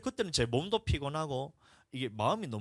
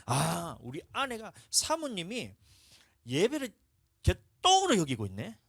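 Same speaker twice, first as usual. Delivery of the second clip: scornful thought; 4 semitones higher, 5 dB louder, slower than usual. Retold or imitated. Pastor voices his contemptuous thought.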